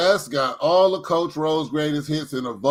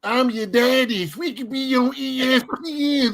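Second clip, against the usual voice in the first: movie line quote; 7 semitones higher than usual. Retold or imitated. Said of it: "he was cross-eyed".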